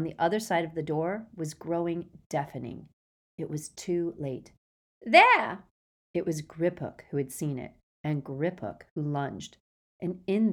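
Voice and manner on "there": high, loud exclamation; urgent cry. A narrator's reading. Sudden cry in action scene.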